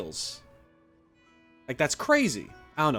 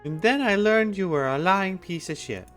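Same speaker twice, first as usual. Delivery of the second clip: mock accusation; 7 semitones higher than usual. Player mockingly answers the merchant.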